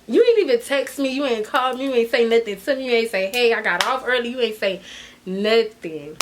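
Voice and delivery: retold scolding, piling up complaints; mildly indignant telling-off; cussing out. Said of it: "So I'm cussing him".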